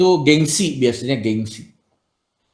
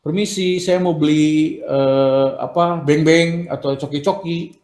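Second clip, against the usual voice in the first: polite shop request; 2 semitones higher than usual. Shown as a demonstration. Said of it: "kalau kamu ke warung misalnya".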